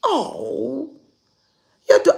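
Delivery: a touch of a nosy stranger; white woman stranger. Retold or imitated. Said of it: "and she said".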